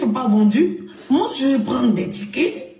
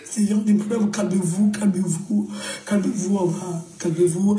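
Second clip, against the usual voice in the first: soothing manager; 5 semitones lower than usual. Acted. Manager calming the crying woman.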